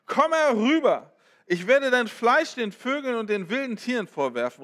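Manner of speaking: loud taunting giant calling across the field; taunting shout. Acted. Goliath taunts David across the battlefield, loud mocking shout. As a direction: shout the threat down at the boy. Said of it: "rief er David zu".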